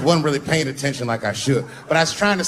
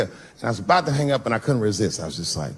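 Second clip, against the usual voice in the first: normal talking voice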